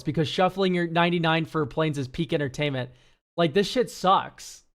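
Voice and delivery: reading the AI roast aloud in a mocking tone; lightly hammed-up read of the deck roast. Streamer reads the AI roast to chat, mocking.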